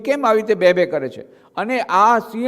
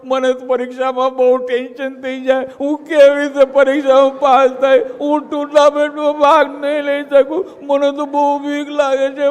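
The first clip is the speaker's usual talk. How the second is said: whiny scared voice; 5 semitones higher than usual. Acted. Mocks fearful audience.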